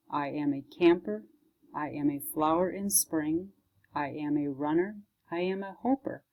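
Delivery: measured, gently paced poem recital; poem reading. Acted. Librarian reading a child's "I Am" poem, measured recital. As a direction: read each line as its own small statement, with pauses.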